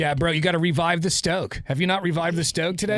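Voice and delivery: lightly voiced surfer bro; a hint of stoner surfer talk; baked California bro. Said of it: "half of 'em just sound baked".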